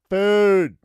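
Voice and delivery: loud emphatic shout of one word. Real, not acted. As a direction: yell it out. Shouting his answer in the game.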